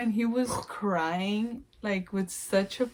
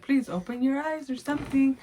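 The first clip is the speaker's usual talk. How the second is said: higher, anxious plea; pleading husband; 5 semitones higher than usual. Retold or imitated. Husband begging his unresponsive wife, pleading. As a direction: beg her to open her eyes. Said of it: "He's like".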